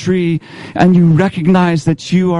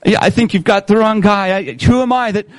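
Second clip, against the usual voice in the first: Moses protesting; 5 semitones higher than usual. Acted. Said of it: "Your first point is this".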